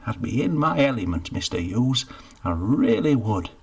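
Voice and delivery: Geoffrey talking the baker into hiring him, with relish. Acted. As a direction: sell the dream, savouring it. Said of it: "commending it with relish".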